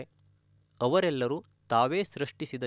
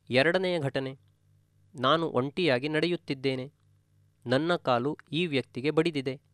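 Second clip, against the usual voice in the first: normal talking voice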